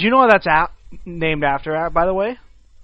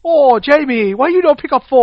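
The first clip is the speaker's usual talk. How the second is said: high, loud put-on Asian accent; hammed-up Asian accent, scolding; mock Asian accent; 7 semitones higher, 6 dB louder than usual. Nagging Jamie to answer, mock Asian accent. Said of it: "it's Asian".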